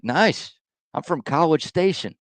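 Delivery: lightly voiced chipper barista; a touch of a high eager barista voice.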